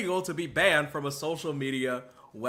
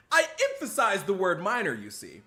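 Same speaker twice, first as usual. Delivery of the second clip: mock Doc. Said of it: "Doctor Disrespect's master plan".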